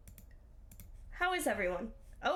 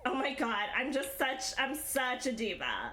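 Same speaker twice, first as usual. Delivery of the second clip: put-on valley girl. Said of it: "So we're gonna talk like this now".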